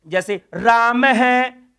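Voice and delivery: राम है said slowly with an echoing है; teacher slowly sounding out the visarga; slow pronunciation demo. Shown as a demonstration. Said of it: "इसको हम क्या कहेंगे".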